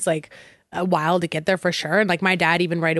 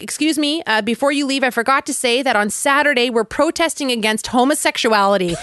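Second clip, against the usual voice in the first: lightly voiced priest on the mic; mock a cheery public notice, slightly raised pitch; priest's announcement; 2 semitones higher than usual. Priest tells departing churchgoers about Saturday, imitated announcement. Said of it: "on the mic".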